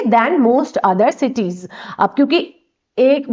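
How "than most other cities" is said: stretched out, word by word; very slow dictation. Shown as a demonstration. Teacher dictating the answer to students, very slow. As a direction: lay each word down slowly for them to copy. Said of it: "ठीक है?".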